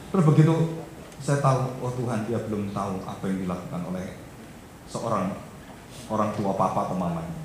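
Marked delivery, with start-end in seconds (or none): 1.8-7.4 low, soft murmured prayer; quiet retold prayer. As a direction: pray softly to God, voice dropped low. Father retells his private prayer.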